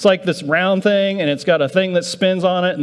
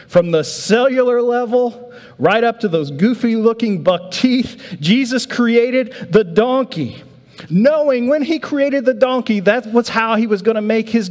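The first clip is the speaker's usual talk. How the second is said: marveling preacher; 7 semitones higher than usual. Real, not acted.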